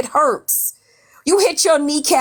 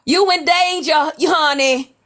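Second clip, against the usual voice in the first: imitated movie warning, pitched up; Whoopi Goldberg; 4 semitones higher, slower than usual. Streamer quotes a warning from Ghost to viewers, light impression. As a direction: quote the film line in a higher, playful impression. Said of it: "Whoopi Goldberg said".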